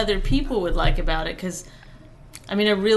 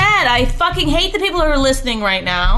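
higher and louder, half-joking anger; mock upset; 3 semitones higher, 5 dB louder than usual. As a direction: play mad at the kid, not really furious. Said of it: "I'm getting upset".

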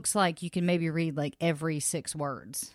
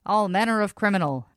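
put-on old-timey radio announcer warning; hammy newsreel voice; 1930s radio announcer; 3 semitones higher, 5 dB louder than usual. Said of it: "I just like doing that voice".

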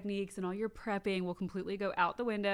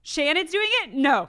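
indignant disbelief; 8 semitones higher, 7 dB louder than usual. Retold or imitated. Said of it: "In the moment, I would've been like".

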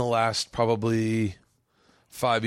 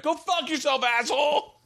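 much higher, words squeezed out through laughter; real laughter cracking up the story; laughing while telling. Retold or imitated. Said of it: "you can hear Roy in the back".

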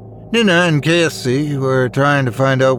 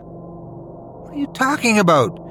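demanding; 10 semitones higher, 4 dB quieter than usual. A narrator's reading. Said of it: "Cassie demanded to know".

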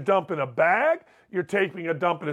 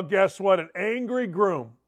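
ordinary talk

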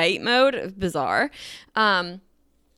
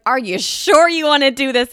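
mock nervous check; 5 semitones higher, 8 dB louder than usual. Nervous check before entering.

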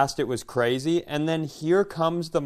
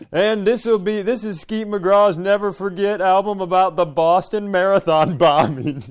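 Skeet McGraw announcing; 3 semitones higher than usual. Pretend. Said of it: "Skeet McGraw ... Never Forget".

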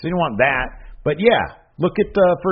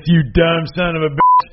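loud, higher mock Stone Cold snarl; Stone Cold impression; 5 semitones higher, 5 dB louder than usual. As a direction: bark it like Stone Cold cutting a promo. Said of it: "he talked like this".

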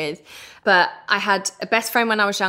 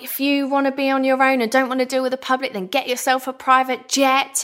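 higher-pitched mock rant; retold angry outburst; 4 semitones higher than usual. Mother retelling telling off a snooty plane passenger, retold angry outburst. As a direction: re-enact telling someone off. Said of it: "I just went into one".

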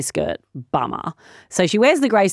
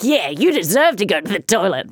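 teacher; 3 semitones higher than usual. Acted. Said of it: "And the teacher's like".

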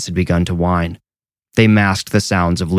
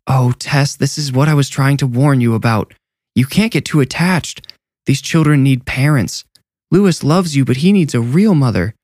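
stern headmistress; 6 semitones higher than usual. A narrator's reading. Headmistress lecturing nurse.

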